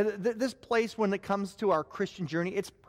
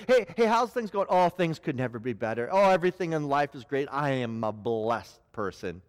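fake cheer; 5 semitones lower than usual. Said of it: "put the mask back on".

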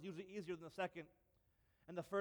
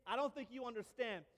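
earnest David; 3 semitones higher, 3 dB louder than usual. Retold or imitated. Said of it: "he says".

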